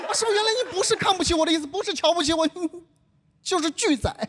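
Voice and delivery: sarcastic rider calling out the cabbie; mock sarcastic realization. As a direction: spell out the refusal with a sly grin.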